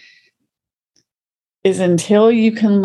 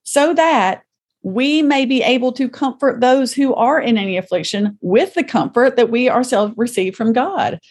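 scripture reading; 6 semitones higher than usual. Acted. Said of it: "I'm gonna read the first part".

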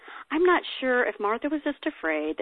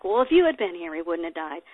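sassy scolding; 4 dB louder than usual. Retold or imitated. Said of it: "with a different attitude".

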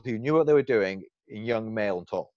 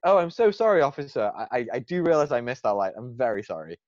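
put-on polite British accent, apologetic to a cop; 3 dB louder than usual. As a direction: fake a British accent to sweet-talk the officer. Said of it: "This is my, my best British accent".

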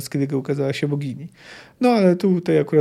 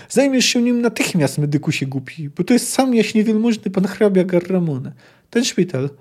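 angry demand; 4 semitones higher than usual. Acted. Knight demanding immediate treatment.

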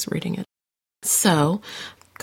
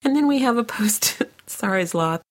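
whisper; 4 semitones higher than usual. Real, not acted. Coughing fit, voice giving out.

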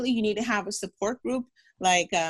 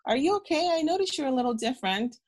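higher voice imitating a worried aunt; concerned aunt; 5 semitones higher than usual. Aunt in the hospital asks her nephew, higher concerned voice. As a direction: lightly voice the aunt noticing something's wrong. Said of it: "And she goes".

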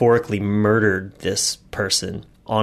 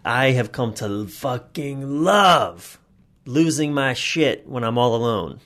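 relishing; 3 semitones higher, slower than usual. Real, not acted. Relishing anger release.

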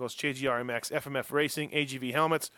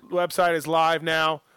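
ad plug; 6 dB louder, slower than usual. Acted. Plugging sponsor website.

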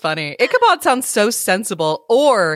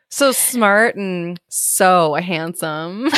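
flirty swoon; 2 semitones lower, much slower than usual. Pretend. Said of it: "Yeah, yeah".

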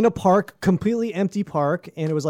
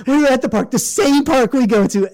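higher, louder mock retelling; imitated aggrieved woman; 7 semitones higher, 5 dB louder than usual. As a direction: complain to friends in mock outrage. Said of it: "what she's telling her friends".

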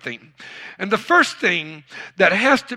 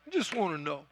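much softer, almost to himself; quiet repeat; 12 dB quieter, faster than usual. Acted. Pastor softly repeating his question to the church, much softer. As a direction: drop the voice right down.

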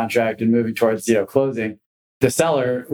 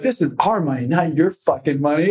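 higher, hammed-up angry berating; furious cussing out; 5 semitones higher than usual. Manager berating rookie agent behind a closed door, furious. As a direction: tear into the rookie like a furious boss.

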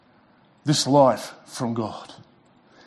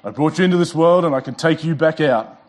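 mock stern parent. Parent warning his boys, mock stern. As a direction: lay down the law to your boys, half joking. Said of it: "I only use it with my boys".

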